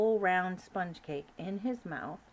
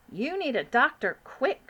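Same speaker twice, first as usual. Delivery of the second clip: louder urgent king; alarmed cry; 5 semitones higher, 8 dB louder than usual. Acted. King urging the Queen, alarmed cry. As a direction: urge her in alarm. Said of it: "cried the King".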